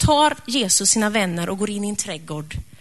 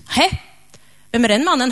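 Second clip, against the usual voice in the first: feigned surprise; 3 semitones higher, 5 dB louder than usual. Acted. Petrus plays dumb to the girl.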